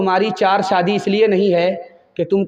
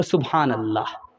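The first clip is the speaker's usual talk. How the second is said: low, soft, devout murmur; soft pious reply; 8 semitones lower, 6 dB quieter than usual. Acted. Daughter answering her mother about in-laws, low and devout. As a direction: hush it like a blessing.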